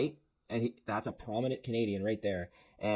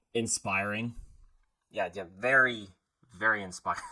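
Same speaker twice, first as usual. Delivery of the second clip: sarcastic praise; 4 dB louder than usual. Pretend. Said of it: "No, I just joke".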